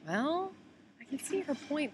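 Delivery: high-pitched, doubtful reply; mock concession. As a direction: pretend to grant the point in a high voice. Acts out her own reaction.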